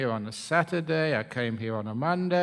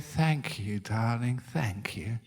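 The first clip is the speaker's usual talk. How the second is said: tender gratitude; 5 semitones lower, 4 dB quieter, slower than usual. Acted. Wife reconciled after crying.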